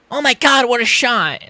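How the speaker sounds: high mock commentator gasp, imitating Rogan. Streamer mocking Rogan's commentary, mock announcer gasp. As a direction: parody the excited announcer. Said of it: "is what Rogan is saying".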